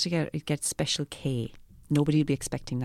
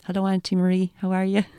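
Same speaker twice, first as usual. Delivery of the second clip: cheery greeting; 5 semitones higher, 4 dB louder than usual. Acted. Greeting aunt in studio.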